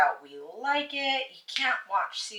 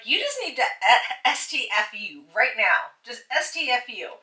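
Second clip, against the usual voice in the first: emphatic, sassy order; mock scolding with hard stresses; retold telling-off; 6 dB louder than usual. Wife recounts telling her husband to shut up, sassy telling-off.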